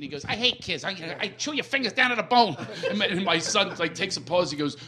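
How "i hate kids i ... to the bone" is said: higher-pitched movie-villain impression; Joe Pesci. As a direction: play a comic crook threatening kids. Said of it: "he busted into the scene".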